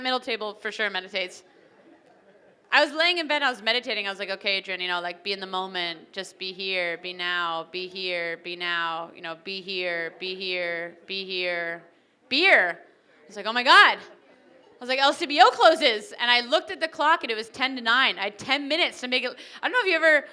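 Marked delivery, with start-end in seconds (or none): 4.3-12.8 lightly mocking meditation mantra; mock meditation calm. 13.5-14.0 loud gasp of realization; loud startled oh my God; sudden alarm. Retold or imitated. 15.0-16.1 loud panicked cry, laughing; laughing, panicked loud blurt. Retold or imitated. Panic realization.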